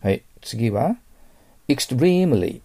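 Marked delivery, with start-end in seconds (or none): 1.7-2.6 extremely with a hugely stressed, high, drawn-out "TREE"; 極端なアクセント. Shown as a demonstration. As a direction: exaggerate the accent on the second syllable of extremely. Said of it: "アクセントは私ちょっと極端に言いますから". (「extremely」の「リー」を極端に強調)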